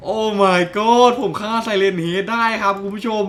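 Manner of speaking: slow drawn-out proud cry; triumphant announcement. Real, not acted. Gamer telling viewers he killed Siren Head, slow triumphant cry. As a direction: savor the victory.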